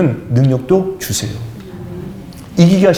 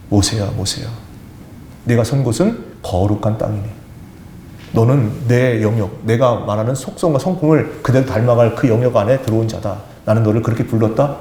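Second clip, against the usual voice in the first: lower, grave voice of God calling Moses by name; 4 semitones lower than usual. Acted. God calling Moses from the burning bush, a lower solemn voice.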